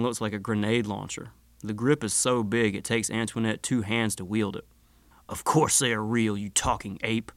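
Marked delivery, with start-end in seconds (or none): 5.3-7.3 put-on watery shark creature accent; sharky accent. A narrator's reading. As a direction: speak like a talking shark. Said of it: "watery, sharky accent".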